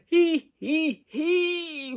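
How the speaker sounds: loud, high wheezy he he he; wheezing giggle. Acted. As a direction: giggle until out of breath. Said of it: "wheezed the dragon".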